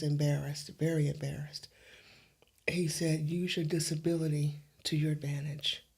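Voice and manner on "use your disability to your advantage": God speaking in a hush; whispered voice of God. Retold or imitated. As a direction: breathe it like a holy secret. God's words repeated, hushed.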